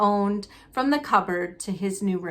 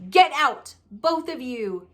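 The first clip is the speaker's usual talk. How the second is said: croaked; 3 semitones higher than usual. Acted. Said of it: "croaked Uncle Vernon".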